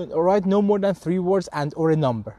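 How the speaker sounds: slow, deliberate read of the test rubric; slow, careful English quote; reading the instructions slowly. Shown as a demonstration. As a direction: spell out each word of the instruction. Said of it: "بس میگه".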